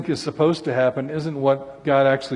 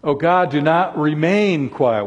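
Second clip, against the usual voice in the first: "remain" leaned on and stretched out; stress on remain; 4 dB louder than usual. Shown as a demonstration. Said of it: "Why did I emphasize the word remain?".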